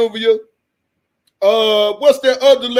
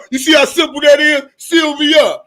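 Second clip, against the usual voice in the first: excited shout; 3 semitones higher, 4 dB louder than usual. Real, not acted. Shouting at the audience, amused.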